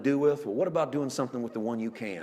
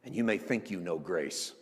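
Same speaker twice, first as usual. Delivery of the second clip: low, hushed assurance; God's solemn promise; 7 semitones lower, 7 dB quieter than usual. Acted. Preacher voicing God's promise of mercy, quiet and low. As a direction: drop down low and soft, measured phrases.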